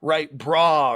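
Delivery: setting her up with playful fake serenity; sarcastic and facetious. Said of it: "sort of being sarcastic and facetious".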